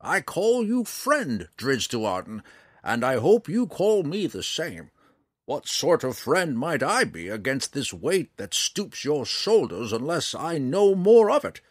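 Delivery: perturbed. A narrator's reading. Old ranger challenging Drizzt to confide or leave, perturbed. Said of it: "seeming perturbed".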